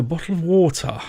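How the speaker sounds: a bottle of water in a put-on stereotypical British accent; lightly put-on stereotypical British accent on a bottle of water; mock stereotypical British accent. Shown as a demonstration. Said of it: "in a stereotypical British accent".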